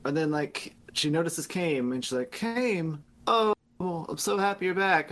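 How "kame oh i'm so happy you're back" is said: higher, lightly hammed-up delight; mock joyful reunion. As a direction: greet a long-lost husband in mock joy. Mimics wife's reunion greeting.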